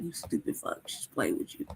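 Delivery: whispered cat voice talking down; hushed mock cat scolding; voicing the cat. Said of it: "Khalifa's just like".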